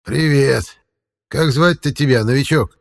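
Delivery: put-on slightly creaky old man voice; a hint of a creaky old forest man; creepy caretaker. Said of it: "слегка скрипучим голосом".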